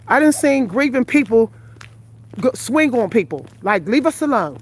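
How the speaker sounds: breathless from a long walk; winded, talking between breaths. Real, not acted. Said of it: "I am out of breath".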